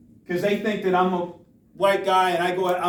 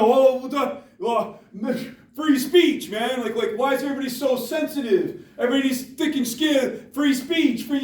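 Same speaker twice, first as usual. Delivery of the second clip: higher, mock-dismissive bro voice; mocking a free-speech defender; 4 semitones higher than usual. Speaker mocks a student defending slurs, higher mock bro voice. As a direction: sneer it out like a guy brushing off criticism. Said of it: "And you go".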